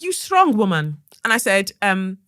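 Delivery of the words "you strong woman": lightly attempted Brazilian accent; poor Brazilian accent. Reception guy repeating his compliment, rough Brazilian accent. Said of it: "I can't do a Brazilian accent".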